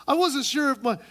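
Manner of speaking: hammed-up insecure friend; mock-girly fussing; fretting woman. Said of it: "Woman number two says".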